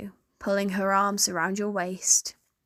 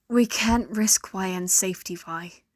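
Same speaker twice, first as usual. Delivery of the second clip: firm. Acted. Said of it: "Caitlin's voice was firm".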